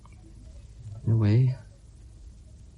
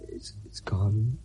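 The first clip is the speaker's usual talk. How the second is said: slow, soft unvoiced grief; father whispering farewell to his daughter; grieving whisper; 5 semitones lower, 10 dB quieter, slower than usual. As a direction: whisper it to the departed.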